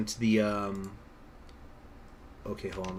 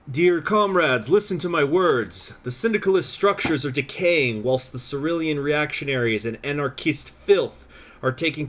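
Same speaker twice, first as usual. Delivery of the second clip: put-on French accent; 3 semitones higher than usual. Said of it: "the French accent".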